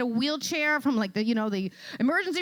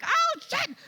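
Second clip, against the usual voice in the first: shocked onlookers; 14 semitones higher than usual. Retold or imitated. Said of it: "And they're like".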